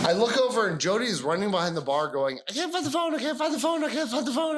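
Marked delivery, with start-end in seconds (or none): 2.5-4.6 high, frantic repeated cry; panicked repeat. Retold or imitated. Jody panicking behind the bar.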